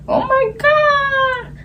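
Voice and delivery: slow, high, stretched oh my God; overwhelmed slow exclamation; drawn-out gasp. Acted. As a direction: stretch it out in awe.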